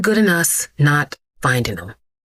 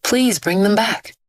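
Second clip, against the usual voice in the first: weeping plea; 5 semitones higher than usual. Acted. Old woman begging for her stolen belongings, tearfully. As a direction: beg through mild tears for her things. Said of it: "she wept".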